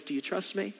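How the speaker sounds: hushed, gentle question; soft near-whisper. Acted. God speaking into our hearts, softly. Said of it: "God whispers into our hearts".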